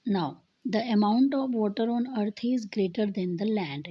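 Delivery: slow, deliberate reading of an English definition; slow textbook reading. Acted. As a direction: read each word out slowly for the class. Reading textbook line aloud.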